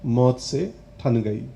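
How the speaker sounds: measured, firm closing refrain; resolute, settled poem delivery; poetry recitation. Acted. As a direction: come down from the climax into steady verse.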